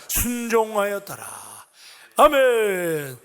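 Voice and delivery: 힘주어 또박또박 읽는 성경 봉독; 회중을 이끌듯 크게, 끝을 길게 늘여. Real, not acted. 회중과 함께 성경 봉독. (힘찬 낭독조로 성경을 함께 읽기)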